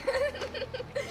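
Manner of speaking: soft, high giggle; laughing. Acted. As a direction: giggle when told off by a stranger. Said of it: "انت بتضحكي ازاي يعني؟". (ضحكة مكتومة)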